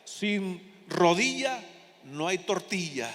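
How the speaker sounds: very slow, drawn out, chuckling at the end; slow quoted saying. Retold or imitated. Preacher quoting a folksy saying to the congregation, slowly drawn out. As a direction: spell out "Sin rodilla no hay tortilla" word by word, slow. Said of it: "otro que decía".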